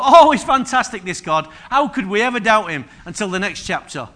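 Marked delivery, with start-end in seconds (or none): 0.0-2.8 loud, higher mock gushing that drips irony; sarcastic praise. Israelites mocking God's miracles, loud sarcastic gush. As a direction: fake delight, then a pointed jab.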